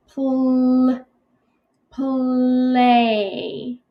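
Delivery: Pl- then play, sound by sound. Shown as a demonstration. Teacher breaking word apart for class, segmented. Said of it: "break it apart and do the first part".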